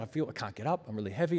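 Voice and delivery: low, soft imitation of helplessness; retold sobbing. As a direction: quietly act out being weighed down. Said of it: "And I was just sobbing".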